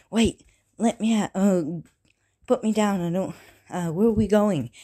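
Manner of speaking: retold plea to be put down; mock protest. Boy floated behind his mother into a forest, lightly acted protest. Izuku carried off, protesting to Inko.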